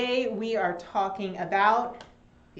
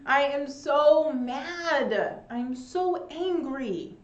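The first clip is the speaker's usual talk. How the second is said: louder, slow playful mad voice; slow, playful mock anger; mock angry; 5 semitones higher, 4 dB louder, slower than usual. Shown as a demonstration. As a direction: act mad for the class. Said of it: "mad or angry".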